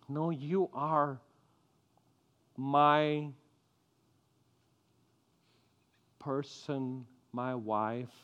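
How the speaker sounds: soft, low, slow and tender; tender to wife. Retold or imitated. Husband telling his wife her worth, soft low and tender. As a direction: speak lovingly and gently to her. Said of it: "Instead of saying".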